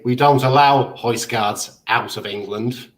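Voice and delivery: slow, imitated Scouse; broad Scouse accent. Retelling Scouse airport security stopping him, broad Scouse accent. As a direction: put on a broad Liverpool accent. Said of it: "I heard this broad Scouse accent say".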